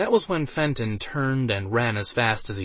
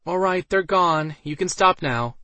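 calling out; 7 semitones higher, 3 dB louder than usual. A narrator's reading. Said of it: "Alice finally called out".

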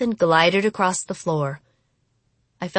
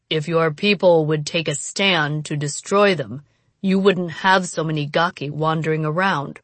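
low, cold and unimpressed; hard, unimpressed; 3 semitones lower than usual. Acted. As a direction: state it flatly, unmoved. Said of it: "his voice hard and unimpressed".

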